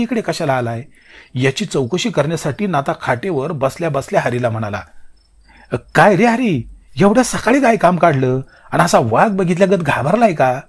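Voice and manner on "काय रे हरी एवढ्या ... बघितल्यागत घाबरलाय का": louder, higher startled question; startled call. Acted. Natha asking frightened Hari why he came, raised startled voice. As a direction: ask what the panic is about. Startled elder brother answering.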